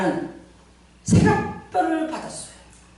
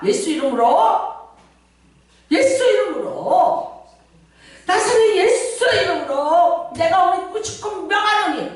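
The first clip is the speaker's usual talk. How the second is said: commanding prayer; 6 semitones higher than usual. Shown as a demonstration. Preacher shows congregation a one-line prayer, commanding. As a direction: proclaim it as a command, building higher.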